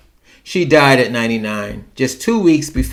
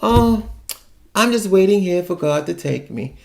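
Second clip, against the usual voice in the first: mock sad aunt; 5 semitones higher, 3 dB quieter than usual. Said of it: "She says that all the time".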